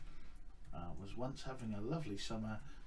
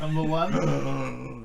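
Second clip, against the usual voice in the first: dramatic surprise; 12 dB louder, much slower than usual. Acted. Dramatic slow echo of draw.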